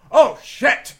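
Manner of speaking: sudden shocked shout; panicked curse. Acted. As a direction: blurt it out in shock. Character swearing in panic.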